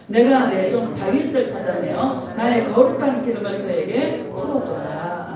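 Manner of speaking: measured, weighty recitation of the verse; solemn scripture reading. Acted. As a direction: read it like holy writ to the congregation. Reads scripture aloud.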